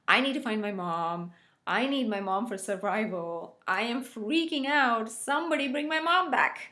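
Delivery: put-on panicked baby's voice. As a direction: let the baby's panic climb to the last line. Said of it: "The baby is trying to signal to the world that".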